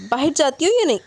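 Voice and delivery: stern glare. Acted. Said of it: "انہوں نے گھور کر کہا".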